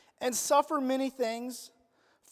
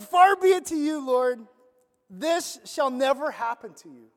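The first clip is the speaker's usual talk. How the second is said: bold rebuke; 6 dB louder than usual. Retold or imitated. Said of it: "he's like".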